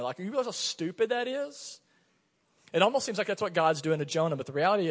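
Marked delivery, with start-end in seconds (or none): 0.2-1.8 high-pitched teasing disbelief; taunting. Retold or imitated. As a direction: tease the child with mock disbelief. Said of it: "I was kinda taunting her".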